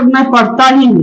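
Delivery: ही pressed with a falling tune; stress on ही. Shown as a demonstration. Teacher showing the class emphasis on ही. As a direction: lean on ही. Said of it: "इसी को बोल सकते".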